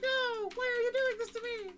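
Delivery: high, loud wailing plea from a tiny creature; crying blue orb. Acted. Game master voices a doomed orb, high tearful pleading. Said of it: "the blue orb starts crying".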